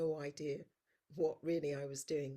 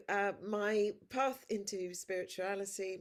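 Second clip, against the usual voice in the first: louder and higher, projecting; talking loud; 4 semitones higher, 6 dB louder than usual. Real, not acted. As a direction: push the voice to carry. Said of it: "I'll keep talking loud".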